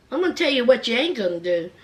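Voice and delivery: low, fast warning, imitating the sister; defiant sister. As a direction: lay it down low and quick. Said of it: "And the sister's like this".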